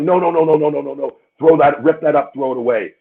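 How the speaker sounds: high, fast, flustered pleading; imitating a flustered boss backpedaling; panicked boss.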